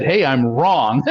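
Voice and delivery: triumphant laugh. Retold or imitated. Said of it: "he kind of triumphantly said".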